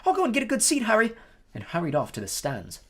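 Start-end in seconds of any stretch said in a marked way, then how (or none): 0.1-1.1 put-on high, piping boy voice. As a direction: pipe it up high and eager. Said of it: "in a piping voice".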